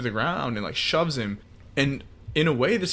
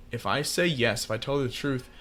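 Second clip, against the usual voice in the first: retold dejected musing, fading; acted inner worry; 4 dB quieter, faster than usual. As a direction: think it aloud, sinking away by the end. Jojo's inner thoughts, fearing loneliness.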